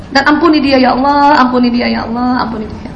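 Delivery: a pleading prayer that fades to a near whisper. Shown as a demonstration. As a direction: repeat the plea, fading away. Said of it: "perlu sebut namanya".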